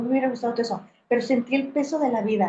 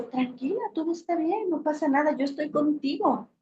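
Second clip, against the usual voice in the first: softer, lifted and tender; soothing comfort; 4 semitones higher, 4 dB quieter than usual. Shown as a demonstration. Mariana comforting her crying self, soft and soothing. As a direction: hush a crying child kindly. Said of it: "Mariana le dice".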